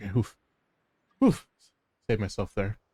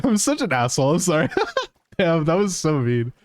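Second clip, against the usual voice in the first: laughing; 4 semitones higher than usual. Real, not acted. Laughing at own prank on friend.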